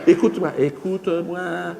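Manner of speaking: slow, otherworldly, laughing; insistent alien. Acted. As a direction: draw the words out to hold him.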